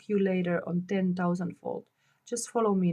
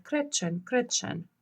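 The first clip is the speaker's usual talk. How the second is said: higher call, each name falling; calling aloud; 4 semitones higher, slower than usual. Acted. Faust calls Gretchen aloud to reach her through her terror. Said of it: "Faust aloud".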